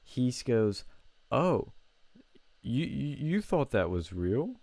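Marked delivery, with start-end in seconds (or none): 1.3-4.6 a light, smug villain reveal, imitating him; mocking the classmate as a cartoon villain; movie villain voice. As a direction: sneer it out like a Disney villain. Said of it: "like a fucking movie villain".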